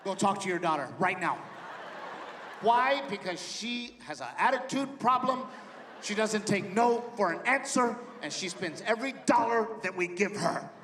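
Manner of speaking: put-on a mother fed up with her teen; complaining wife.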